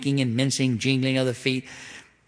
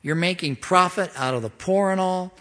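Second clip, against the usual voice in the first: higher, indignant scolding voice; God rebuking the leaders; 6 semitones higher than usual. Pretend. A touch of God rebuking the rulers, higher. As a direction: call the elders out. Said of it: "He goes".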